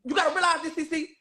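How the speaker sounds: laughing through the words; can't keep a straight face while swearing it. Real, not acted. Laughing while swearing to friend C C on live. Swearing she's telling the truth.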